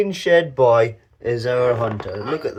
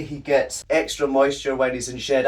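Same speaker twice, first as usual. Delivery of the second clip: breathless from lifting the python; winded from holding a heavy snake; out of breath. Real, not acted. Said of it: "I'm out of breath".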